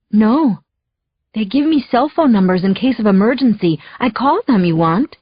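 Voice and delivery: put-on a light Spanish accent, answering the phone; lightly accented hello, picking up; Maria's accent. The housekeeper picks up, in a light Spanish accent. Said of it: "her accent".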